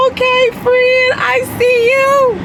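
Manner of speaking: chirpy high thanks; high happy reply. Retold or imitated. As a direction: squeal it back high and pleased. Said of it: "I'm like".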